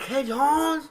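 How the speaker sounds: loud, high call in a mock Asian accent; mock Asian-accented woman. Hospital staffer calling a patient, ornery mock Asian accent. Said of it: "she is ornery as hell".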